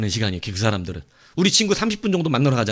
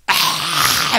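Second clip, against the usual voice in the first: long drawn-out mock scream; venting yell; 2 semitones higher, 4 dB louder than usual. Shown as a demonstration. Preacher showing yelling alone on a mountain, venting scream. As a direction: demonstrate yelling into empty hills. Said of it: "아무도 없는 데 가서".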